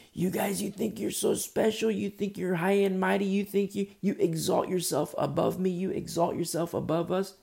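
high accusing chant without real volume; mock yelling. Man in the basement to people above, mock yelling. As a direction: imitate someone calling up from far below. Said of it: "he starts yelling at us".

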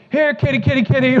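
high-pitched kitty call; calling a cat. Retold or imitated. Husband acts out calling the cat, high-pitched.

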